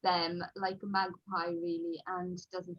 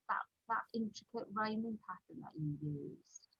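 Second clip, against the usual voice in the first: softer, offhand publisher's remark; casual retold request; 7 dB quieter than usual. Publisher asking the author for the same pattern, offhand. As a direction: toss it off quietly, as a casual request.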